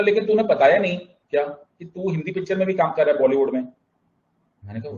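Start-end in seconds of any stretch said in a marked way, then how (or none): 0.0-3.6 high, fast excited questioning; mock astonishment, rapid and raised in pitch; amazed friend. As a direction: imitate a friend bursting with news. Acts out friend's astonished phone question.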